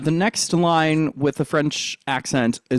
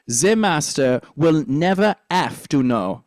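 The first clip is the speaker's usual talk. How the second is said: French accent. Shown as a demonstration. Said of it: "rather than half".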